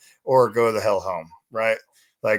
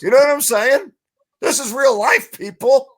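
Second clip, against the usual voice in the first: louder and higher, yelling in disbelief; outraged shout; 12 semitones higher, 8 dB louder than usual. Real, not acted. Host ranting to co-hosts about foreign news, outraged shout. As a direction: rant it like you can't believe it.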